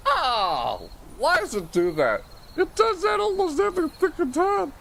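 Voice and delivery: loud, rising pained complaint; pained outburst. Real, not acted. Complaining about his gear, loud and high. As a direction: yell it out hurt and annoyed. Hurt and annoyed at setup.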